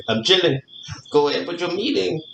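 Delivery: put-on light Mexican accent, laid-back and stubborn; a hint of a Mexican accent as Calito refuses the chair. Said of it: "really good accent, like, Mexican accent".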